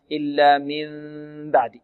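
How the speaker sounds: مِن بعد with the lips held slightly apart on a long hum; wrong gap at meem. Shown as a demonstration. Teacher showing students how not to read it, wrong nasal hum. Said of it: "لا يقرأها القارئ هكذا".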